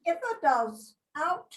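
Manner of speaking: broad Yorkshire recitation, phrase by phrase; Yorkshire accent. Pretend. Reciting a Yorkshire Tykes motto to the group on request, Yorkshire accent. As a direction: put on your best Yorkshire accent. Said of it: "in my best Yorkshire accent".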